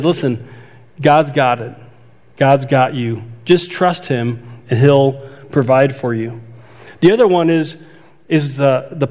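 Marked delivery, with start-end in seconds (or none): 0.0-6.4 gentle reassurance. Acted. Jesus voiced reassuring worried disciples.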